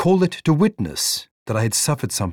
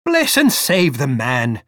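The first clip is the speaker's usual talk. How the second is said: a slow, sharp exclamation; exasperated aunt, sharply; 2 semitones higher than usual. Acted. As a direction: snap it at him in exasperation. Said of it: "exclaimed my aunt sharply".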